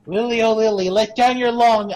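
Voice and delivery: high sing-song call; fairy tale calling. Pretend. Rapunzel parody, sing-song.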